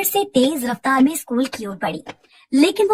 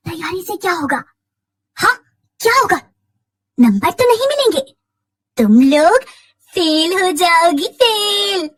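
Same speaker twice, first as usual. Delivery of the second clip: put-on crazed taunting girl; 4 semitones higher, 4 dB louder than usual. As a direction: taunt them as a mad girl, louder and higher as it goes. Mad girl taunts schoolgirls blocking their way. (पगली लड़की का ऊँची आवाज़ में ताना)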